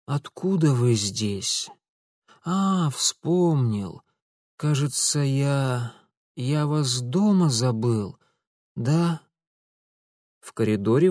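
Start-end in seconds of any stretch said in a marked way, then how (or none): 0.0-9.2 slow, groggy, thick-tongued; slurred, barely speaking. Acted. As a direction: mumble it through exhaustion. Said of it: "еле ворочая языком".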